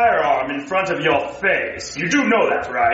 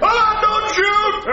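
scared cry; 11 semitones higher, slower than usual. Acted. Clerk robbed at gunpoint.

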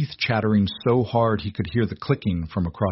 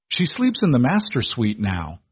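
roaring; 3 semitones higher than usual. Acted. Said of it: "Arthur roared".

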